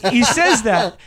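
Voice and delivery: slow, laughing disbelief; amused disbelief, laughing. Real, not acted. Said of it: "slits their throats one second later".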